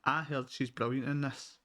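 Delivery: slow, careful, clearly spoken Glaswegian. Shown as a demonstration. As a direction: repeat it slowly so everyone understands. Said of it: "You said it clearer".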